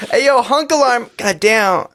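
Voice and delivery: high, laughing mock catcall; mock hunk alarm. Friends joking about a hunk alarm, high laughing mock holler. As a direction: bray it like a gym alarm going off. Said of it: "That's the alarm".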